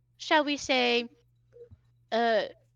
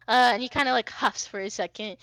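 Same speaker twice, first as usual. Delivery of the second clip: ordinary delivery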